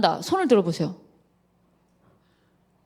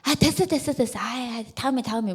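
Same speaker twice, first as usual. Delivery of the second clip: brushing it off; 5 dB quieter than usual. Retold or imitated. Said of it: "그냥 넘어가려 하는 거".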